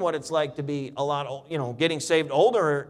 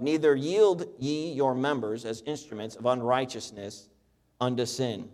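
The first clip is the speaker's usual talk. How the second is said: measured King James reading voice; preacher reading the Bible aloud to the congregation; scripture reading; 2 semitones lower than usual. Acted. Pastor reads Romans to his church, steady and measured.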